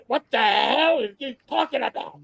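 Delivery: mock outraged mother; upset mother imitation. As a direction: act out a scandalized, sputtering mother. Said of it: "Vivian was very upset".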